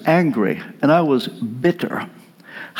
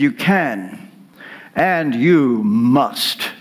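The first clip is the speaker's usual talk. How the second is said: put-on Romanian accent; 2 semitones lower, much slower than usual. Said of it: "in his Romanian accent".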